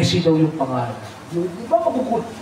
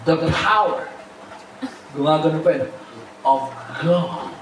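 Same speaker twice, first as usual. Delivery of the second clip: imitating the bishop; 4 semitones lower, 4 dB quieter than usual. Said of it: "Paano nagtuturo si Bishop?".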